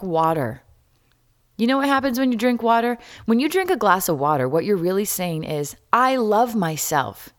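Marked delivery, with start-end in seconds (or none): 5.9-7.3 slow sincere affirmation. Shown as a demonstration. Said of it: "That's what I say these days".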